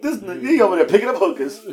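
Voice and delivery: high quote dissolving into laughter; laughing mock gossip; amused teasing. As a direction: tease a friend, cracking up. Retells teasing a friend, laughing.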